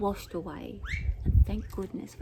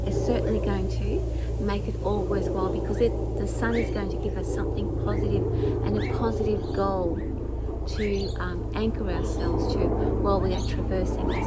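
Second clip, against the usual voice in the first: raised voice over engine noise; yelling over helicopter; 6 dB louder than usual. Real, not acted. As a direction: push the voice over a roaring helicopter. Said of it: "Sorry about the helicopter".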